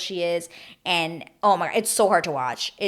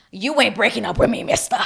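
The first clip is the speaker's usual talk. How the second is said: louder, playful sass in an acted retort; mock sassy; 4 semitones higher, 6 dB louder than usual. Contestant cutting off her suitor before he dumps her, mock sassy. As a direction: put on some mock indignation. Retold sassy break-up confrontation.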